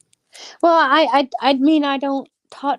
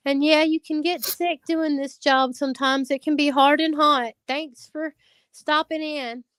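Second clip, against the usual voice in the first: higher, sugary thank-you, slowing at the end; mock-sweet polite reply; 6 semitones higher than usual. Answering a rude commenter with a sweet, higher, overly polite tone. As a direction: kill the hater with fake kindness. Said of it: "So I just commented back".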